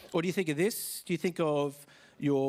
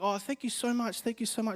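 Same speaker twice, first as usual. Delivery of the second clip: higher-pitched imitation of a thankful dad; mock-gushing gratitude, pitched up; grateful dad; 8 semitones higher than usual. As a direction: lightly act out a dad's effusive thanks. Voices dad thanking him for help.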